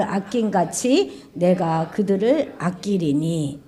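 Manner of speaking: slow, solemn, loud verse read; scripture reading. Acted. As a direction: proclaim it, then soften to a hush. Reads scripture aloud.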